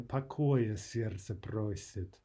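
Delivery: slow, mildly weary verse line. Shown as a demonstration. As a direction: recite it slowly with a touch of weariness. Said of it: "speaks of a kind of weariness".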